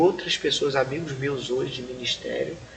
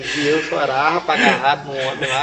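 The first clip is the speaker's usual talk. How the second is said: laughing disbelief; 7 dB louder than usual. Retold or imitated. Mocks the dream while laughing.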